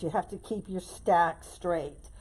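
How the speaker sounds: slow, pressing on have; emphatic rule. Shown as a demonstration. Crafter drilling her key bow rule into viewers, slow and emphatic. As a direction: lean on the word have, slowly, like a firm rule. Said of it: "I always emphasize that".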